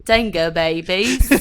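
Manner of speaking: slow, careful go at Aussie; half-hearted mock Australian; attempted Australian accent. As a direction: try to copy the Australian. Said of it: "I can't do it".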